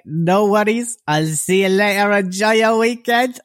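high, loud imitation of a woman signing off; prostitute's cheery farewell. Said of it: "and she was like".

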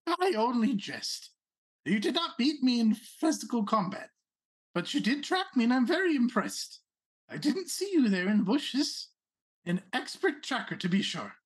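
a hint of a haughty rabbit noble; Rabbit Prince voice. Prince praises the tracker.

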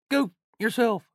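high-pitched mock shout, cleaned-up insult; retold shouting. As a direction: imitate a bloke shouting out. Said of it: "he's shouting out".

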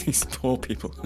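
laughing through mock sympathy; laughing mock pity.

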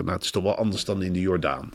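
hushed off-mic aside, imitated; softened mock-confidential murmur; retold whisper. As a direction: quietly confide it, half whispering. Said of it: "fluisterend, de microfoon stond even uit".

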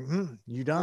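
retold straight-faced check-in; mock-unbothered, poker-faced question; deadpan. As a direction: ask it casually, giving nothing away. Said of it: "making a straight face".

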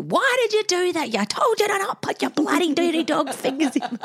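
a playful imitation of a yelling mum; mock yelling. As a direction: scold the kid for the fingers, half-acted. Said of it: "you yell at them still".

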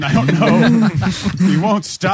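mock bewildered. Joking bit about cheese section.

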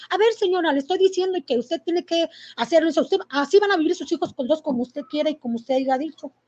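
mildly stern, insistent retold scolding; annoyed director. Director pressing a mother to obey, mildly angry retelling. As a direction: lay down the law, imitating an angry official. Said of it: "el director estaba muy enojado".

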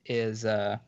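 words catching in the throat; swallowed wrong, choking a little; choking on a drink. Real, not acted. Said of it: "part of that went down the wrong way".

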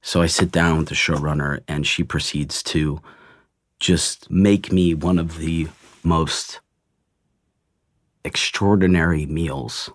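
fighting off real tears while he finishes; holding back tears. Real, not acted. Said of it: "bringing you to tears right now".

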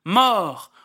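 a sudden loud cry of death; shouted cry. Acted. Reciting the barricade poem, a loud death cry. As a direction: fling the word out over the crowd.

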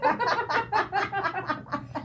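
high burst of laughter; laughing. Real, not acted. Host cracking up at co-host's wine joke, laughing.

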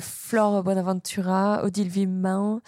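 stuffy blocked nose. Real, not acted. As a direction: speak through a blocked nose. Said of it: "j'ai le nez bouché".

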